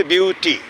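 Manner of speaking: ब्यूटी split as ब्यू-टी with a stop after each part; broken into syllables. Shown as a demonstration. Teacher showing students where the word stops, syllable by syllable. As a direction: say ब्यूटी in two separate beats. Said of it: "ब्यूटी दो बार रुकते हैं".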